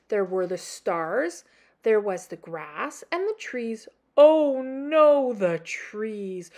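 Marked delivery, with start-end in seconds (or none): 4.2-6.5 louder gasping panic; mild hammed-up fear. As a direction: realise it in alarm. Norman's panicked realisation.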